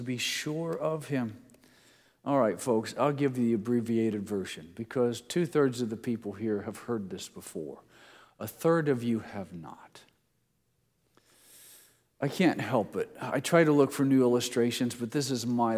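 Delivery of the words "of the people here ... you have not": whispered aside. Real, not acted. Aside to audience.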